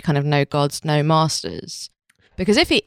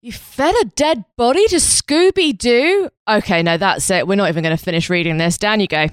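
St. Peter; 3 semitones higher than usual. Retold or imitated. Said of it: "St. Peter with his scroll being like".

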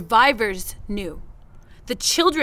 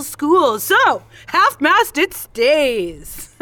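mock announcer voice; 2 semitones higher than usual. Mocking the flag idea as a cheery mock announcer. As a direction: play a chipper flag-thermometer host, lightly hammed.

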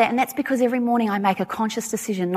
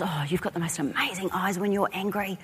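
put-on cheeky child; 9 dB quieter than usual. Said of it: "he goes".

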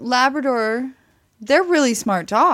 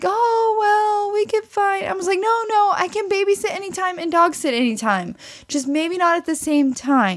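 quoting a friend; 7 semitones higher than usual. Retold or imitated. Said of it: "she's like".

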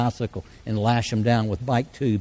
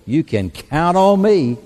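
eager pledge; 6 semitones higher, 7 dB louder, slower than usual. Retold or imitated. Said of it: "two hundred men say".

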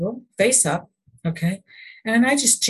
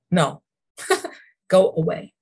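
laughing go away. Retold or imitated. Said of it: "and I go".

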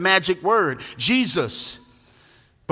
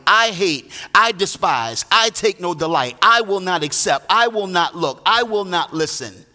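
each "I" punched at the front of the phrase; preacher voicing God, stressing "I"; emphatic first person. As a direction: hammer every "I", falling at the end. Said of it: "I speak for myself directly".

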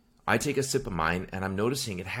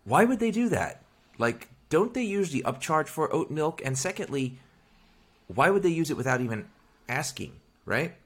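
incredulous; 6 semitones higher than usual. Retold or imitated. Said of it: "So I'm like".

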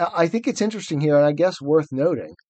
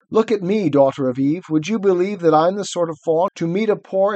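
guilty faun; 4 semitones higher than usual. Acted. Faun confessing his badness to Lucy, lightly voiced. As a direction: wail your own wickedness. Plays Tumnus reading aloud.

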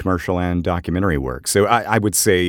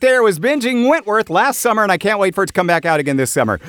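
higher and louder, a playful put-on Australian lilt; playful Australian accent; 13 semitones higher, 5 dB louder than usual. Host teases his co-host about the Wentworth accent, in a playful Australian voice. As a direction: ham up an Aussie voice, excited about the show.

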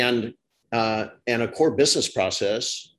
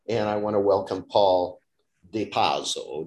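put-on Italian accent. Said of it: "Did I say that in an Italian accent?".

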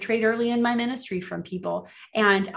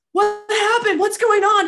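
confused alarm; 12 semitones higher, 7 dB louder, slower than usual. Retold or imitated. Waking up after passing out.

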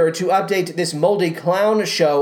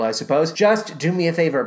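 normal talking voice

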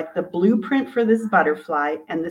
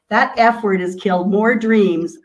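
mentor's warning; 6 dB louder than usual. Retold or imitated. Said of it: "one of my mentors says".

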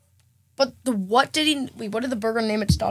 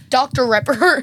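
laughing; 4 dB louder, slower than usual. Real, not acted. Laughing at made-up name.

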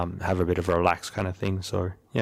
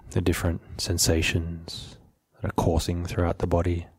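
measured, even delivery, settling at the ends of phrases; guided meditation; 3 semitones lower than usual. Real, not acted. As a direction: gently lead listeners into stillness, unhurried.

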